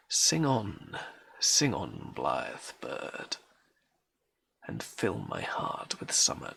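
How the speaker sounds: measured, lilting verse reading; poetry reading. Acted. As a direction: read it as verse, pausing between phrases. Reads a poem aloud.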